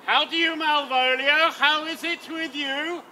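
exaggerated kindness to humour a madman; mock gentle coaxing. Sir Toby coaxing Malvolio with mock gentleness. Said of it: "You must deal gently with her".

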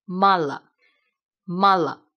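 full open first a, weaker closed a in the second syllable of "慢了"; open then closed vowel. Shown as a demonstration. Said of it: "声音也没有刚才那么饱满了". (前开音、后闭音的示范朗读)

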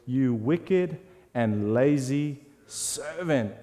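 slow, heavy scolding master; stern rebuke. Acted. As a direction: drag out the condemnation word by word. Master rebukes the lazy servant.

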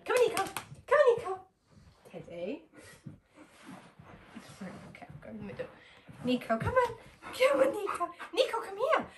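high, eager calling of the dog; squeaky calling. Real, not acted. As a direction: coax the dog over in a high voice.

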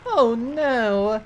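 high, badly faked old man wail; old man voice attempt. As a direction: try out a creaky-codger act, half failing. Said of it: "Let me try it again".

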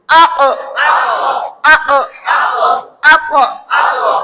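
আ, অ with the release bouncing up; echo upward. Shown as a demonstration. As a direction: let the sound hit upward. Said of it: "উপরের দিকে বাড়ি মারবে".

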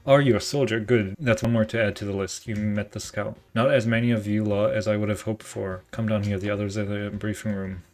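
put-on a light British officer accent; a hint of a British commanding officer. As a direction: play the Admiral with a mild British accent. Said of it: "was that even a good British accent".

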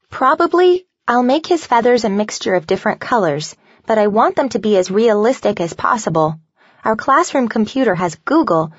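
lightly voiced fourth grader, keen on her plan; eager young girl. Voices excited fourth-grade Grace planning turkey.

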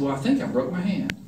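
understated, matter-of-fact report; calm. Retold or imitated. Student tells teacher about his broken hand, calmly. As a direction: imitate calmly announcing an injury, a little softly. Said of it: "And I said it that calmly".

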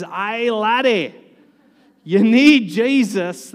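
a bad Scottish accent, played for laughs; terrible Scottish accent. Preacher mimicking a Scot in heaven, hammed-up Scottish accent. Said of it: "That was a terrible Scottish".

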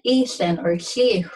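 "eathlin" and "hliw" with a blown, voiceless L; juicy hl in "eathlin, or hliw"; juicy barred L. Shown as a demonstration. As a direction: blow air round the tongue for the hl in "hliw". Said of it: "what they say is a juicy sound".

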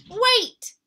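high, eager cub voice; sweet little bear cub. Acted. Little Brown Bear's voice.

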